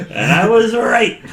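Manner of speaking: loud, high and slow, stretching "was"; triumphant gloat. Real, not acted. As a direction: crow it slowly, savouring the win. Gloating about being right.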